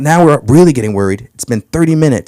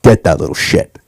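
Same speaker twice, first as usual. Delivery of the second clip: frantic mom; 6 semitones lower, slower than usual. Retold or imitated. Mother shouting to son while held by security, frantic then growled. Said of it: "she says".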